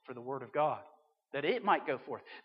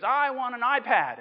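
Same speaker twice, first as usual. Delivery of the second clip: put-on higher, louder kid voice; excited kid; 6 semitones higher, 8 dB louder than usual. Kid telling Santa his wish, higher and louder. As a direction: pipe up like an eager child. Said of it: "one kid goes".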